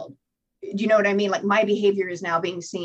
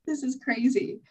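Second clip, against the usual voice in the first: higher, indignant disbelief; pissed off; 6 semitones higher than usual. Retold or imitated. After her first meeting, a retold indignant scoff. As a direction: retell your outrage with a roll of the eyes. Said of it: "I was so pissed".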